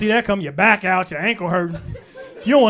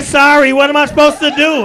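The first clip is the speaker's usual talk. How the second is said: mock woman apology; 2 semitones higher, 6 dB louder than usual. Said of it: "She said".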